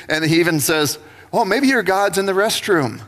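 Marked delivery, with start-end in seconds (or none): 1.3-3.0 lightly mocking jibe; a touch of playful scorn; taunting. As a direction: needle them with a fake-innocent suggestion. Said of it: "he starts taunting them and laughing".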